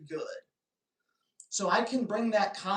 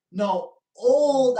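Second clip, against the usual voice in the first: flustered protest; 5 semitones higher, 10 dB louder than usual. Real, not acted. Flustered correction about Eric.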